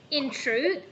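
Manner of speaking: "In truth" as one unit, then a long pause; pause at comma. Shown as a demonstration. Teacher reminds readers about commas, pausing after "In truth". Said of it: "when you see a comma, please, uh, pause".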